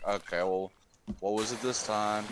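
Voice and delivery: breezy, unbothered tone; super casual. Retold or imitated. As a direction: shrug it off like routine. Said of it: "Super casual".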